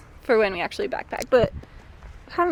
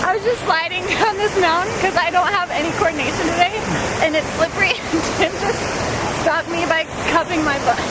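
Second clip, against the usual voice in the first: laughing; 5 semitones higher than usual. Real, not acted. Laughing while telling a slip.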